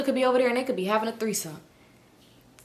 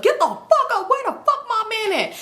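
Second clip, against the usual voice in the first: higher, laughing pretend outburst; laughing fake rant, pitched up; mock yell; 11 semitones higher than usual. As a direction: play the furious wife half-laughing. Imagining waking everyone for husband.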